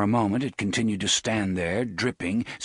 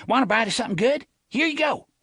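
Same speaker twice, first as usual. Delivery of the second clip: fast coaxing lure; 4 dB louder, much faster than usual. Acted. Boy tosses liver to dog.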